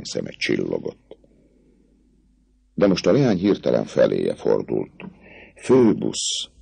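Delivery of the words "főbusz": high, adoring call of his name; voice of endless love. Acted. Girl turning to her captain, adoring. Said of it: "szólt a végtelen szerelem hangján".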